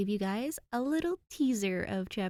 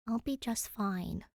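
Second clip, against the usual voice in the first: promising; 5 dB quieter than usual. Acted. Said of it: "she promises him".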